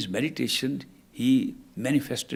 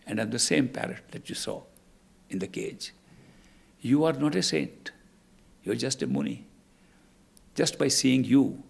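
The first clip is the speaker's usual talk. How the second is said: put-on baby speaks wisely; 2 semitones lower than usual. Newborn baby speaks its revelation.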